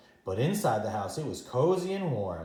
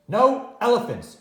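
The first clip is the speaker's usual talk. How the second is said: high, loud stretched no; insist, loud and high; firm refusal; 9 semitones higher, 9 dB louder than usual. Acted. Grandma refuses again.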